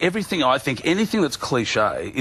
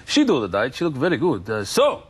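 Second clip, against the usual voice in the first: raised, lightly put-on New Zealand accent; mock Kiwi accent. Imitating the driver asking Shane what's on in Sydney, light Kiwi accent. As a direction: play the chatty Kiwi driver, light and eager. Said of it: "Oh, those crazy Kiwis".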